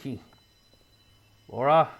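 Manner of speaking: a hint of a gruff, paranoid writer on the phone; lightly voiced Walter. Player voicing Walter arguing on the phone, lightly gruff. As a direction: play it hushed and defensive.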